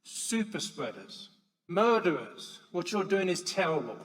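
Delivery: loud accusing shout at passers-by; an elderly woman yelling at helpers in a park; retold shouting. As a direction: hurl the accusation across the park. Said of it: "She started shouting over".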